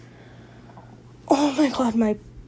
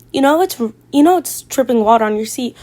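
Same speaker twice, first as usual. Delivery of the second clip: friend's pointed warning; 8 dB louder than usual. Retold or imitated. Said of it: "she taps me again and goes".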